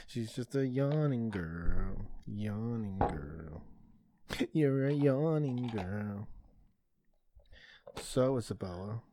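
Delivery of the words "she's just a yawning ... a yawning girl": slow, drawn-out teasing sing-song. Real, not acted. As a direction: stretch each word lazily. Teasing yawning daughter.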